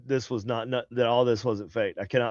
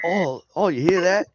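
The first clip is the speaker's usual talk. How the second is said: higher-pitched mock Australian accent; botched British, sounding Australian; 6 semitones higher than usual. Mocking British people, accent sliding into Australian. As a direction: aim for British and slip into Australian. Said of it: "Oh, wait, that was Australian".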